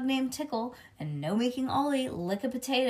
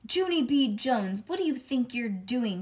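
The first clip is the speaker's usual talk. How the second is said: scolding mother, raised on the name; mildly growling mother; 2 semitones higher than usual. Acted. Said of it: "she growled".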